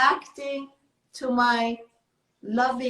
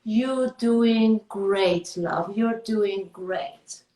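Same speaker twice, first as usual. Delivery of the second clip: slow, tender praise; gentle encouragement; 3 semitones lower, slower than usual. Shown as a demonstration. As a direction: reassure yourself slowly and lovingly. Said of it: "Tap yourself on the shoulder".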